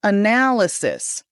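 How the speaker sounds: "Analysis" slow, weight on NAL; four syllables in "Analysis", NAL stretched; stress on second syllable. Shown as a demonstration. Coach practising together with students, stress on second syllable. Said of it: "stress on the second syllable".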